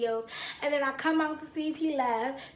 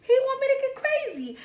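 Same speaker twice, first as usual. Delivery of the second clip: talking to herself; 8 semitones higher than usual. Retold or imitated. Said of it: "talking to myself".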